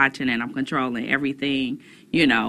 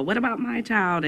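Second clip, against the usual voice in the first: higher whiny parent quote; complaining parent voice; 6 semitones higher than usual. Retold or imitated. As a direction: voice the fussy parent.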